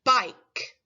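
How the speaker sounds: said on its own, slow and clear; clear test word. Shown as a demonstration. Teacher saying a test word for children to listen to, clearly. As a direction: present the word for careful listening. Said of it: "So listen to this word".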